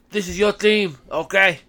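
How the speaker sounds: bad Scottish accent; a clumsy go at a Scottish accent. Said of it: "it's terrible Scottish accent".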